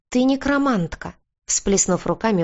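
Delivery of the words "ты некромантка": high-pitched cry of sudden realisation; astonished exclamation. A narrator's reading. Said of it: "воскликнула Бьорна". (изумлённое восклицание на высокой ноте)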